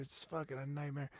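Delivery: normal talking voice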